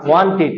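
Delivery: ওয়ান্টেড ending in "-tit", i instead of e; corrected pronunciation. Shown as a demonstration. Teacher models the past tense of want for class, corrected pronunciation. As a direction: turn the e of ওয়ান্টেড into a short i. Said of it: "একারকে রসিকার বানাই দেবো".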